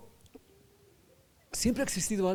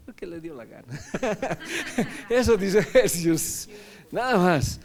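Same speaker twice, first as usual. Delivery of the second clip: real laugh breaking into the words; 3 semitones higher, 5 dB louder than usual. Real, not acted. Teacher amused by what Ephesians says, laughing.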